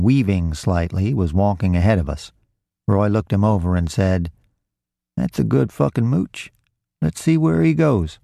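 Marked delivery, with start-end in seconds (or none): 5.2-8.2 higher, lightly voiced street thief; Roy's sly remark. A narrator's reading. Roy sizes up a mooch for his partner, sly. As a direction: confide it higher, as a thief picking a mark. Sizing up a target.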